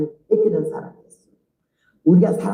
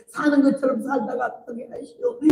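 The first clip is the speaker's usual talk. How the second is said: tearful plea; 5 semitones higher than usual. Retold or imitated. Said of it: "울면서 기도를 하더니".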